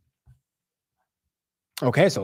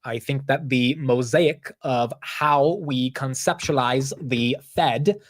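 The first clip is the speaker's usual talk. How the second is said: slow, weak mock British accent; badly faked British accent, slow; slower than usual. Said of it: "I can't even do a British accent".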